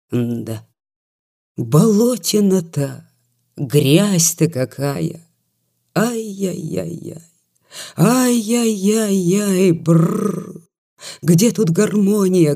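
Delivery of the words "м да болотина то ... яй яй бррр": put-on drunken lament. Drunk doctor laments mud.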